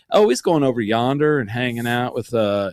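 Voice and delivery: folksy small-town Texas accent; hometown Texas accent. Shown as a demonstration. Showing how hometown folks talk, Texas accent. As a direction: talk like a Texas local back home. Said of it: "that accent where I grew up".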